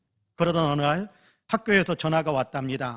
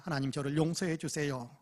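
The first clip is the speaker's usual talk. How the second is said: quiet pleading; 8 dB quieter than usual. Retold or imitated. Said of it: "울부짖으며 기도했답니다".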